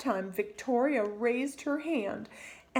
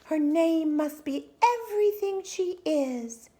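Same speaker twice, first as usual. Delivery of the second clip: hushed, tender mother's whisper; 7 semitones higher, 4 dB louder than usual. Acted. Mother whispers to her newborn daughter, hushed.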